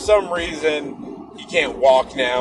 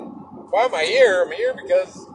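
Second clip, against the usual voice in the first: incredulous. Retold or imitated. Answering his friend's question in high disbelief. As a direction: throw the question back in disbelief.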